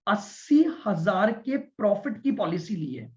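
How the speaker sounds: measured teaching pace with pauses; deliberately slow. Real, not acted. Teacher walking students through an example, deliberately slow. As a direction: spell it out unhurriedly, phrase by phrase. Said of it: "बिल्कुल धीरे धीरे बोल रहा हूं मैं".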